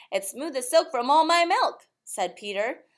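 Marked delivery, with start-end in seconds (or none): 0.1-1.9 put-on proud child. A narrator's reading.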